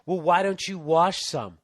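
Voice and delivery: slow, smug know-it-all reply; smug coworker. Retold or imitated. Busboy imitating the smug prison cook, slow and smug. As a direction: drawl it like the obvious answer. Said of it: "this guy in work release goes".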